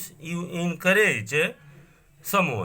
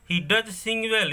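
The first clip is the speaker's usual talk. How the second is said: "does" pressed home, the whole line higher; raised, emphatic "He does sing well"; 8 semitones higher than usual. Shown as a demonstration. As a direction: insist that he really sings. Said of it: "there is given a stress".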